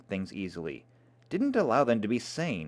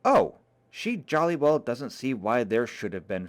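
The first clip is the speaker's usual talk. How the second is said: mocking repeat. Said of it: "as though to an invisible listener".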